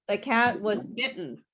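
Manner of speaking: BITTEN as bit'n, nothing sounded in the middle; silent middle T. Shown as a demonstration. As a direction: swallow the T in BITTEN. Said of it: "I don't pronounce anything in the middle".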